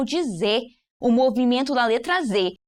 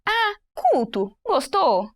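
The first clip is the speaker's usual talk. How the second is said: expressive question; 6 semitones higher, slower than usual. Shown as a demonstration. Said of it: "viu que diferente".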